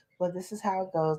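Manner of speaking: put-on calm voice. Recalling answering frantic callers on the phone, imitating own calm voice. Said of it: "I would say in such a calm voice".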